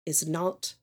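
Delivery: lightly voiced, earnest mother, halting; apologetic mother. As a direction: own up to your son, softening as you go. GM plays the mother.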